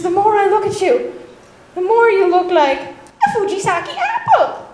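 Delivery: mock-dramatic buildup to a punchline; mock dramatic declaration. Retelling shocked boy's line to girl.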